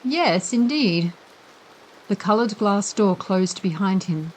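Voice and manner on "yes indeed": warm. A narrator's reading. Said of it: "answering warmly".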